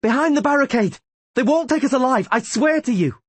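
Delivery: high, loud defiant battle cry; rally the men with fire; rallying shout. A narrator's reading. Rayla shouting defiance to her comrades.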